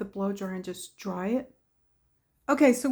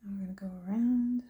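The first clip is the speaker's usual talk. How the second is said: whispering; 4 dB quieter, faster than usual. Real, not acted. Painting, murmured to herself.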